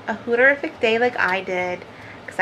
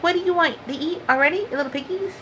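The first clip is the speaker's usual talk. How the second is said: tag; 6 semitones higher, 4 dB quieter, faster than usual. Retold or imitated. Retold reply to pestering kittens.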